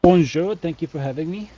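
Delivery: playful French-style greeting; mock French. Guest greets the host in mock French. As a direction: put on a bit of French. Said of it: "you're not French. Don't, don't try to be French".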